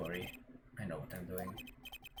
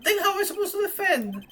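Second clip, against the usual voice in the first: much higher, indignant protest; outraged disbelief. Acted. Defense attorney protesting to the judge, high and indignant. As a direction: cry out that it's unfair.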